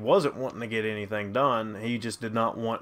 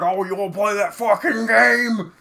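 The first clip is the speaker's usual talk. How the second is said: imitating threatening dad; 7 semitones higher, 5 dB louder than usual. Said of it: "he was like".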